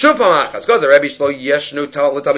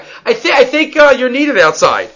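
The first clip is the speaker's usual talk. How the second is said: higher, laughing through a fake-polite dismissal; mock polite brush-off; 7 semitones higher than usual. Rabbi hinting his student should leave, laughing mock politeness. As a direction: stammer a sly hint to leave, chuckling. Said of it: "He's like".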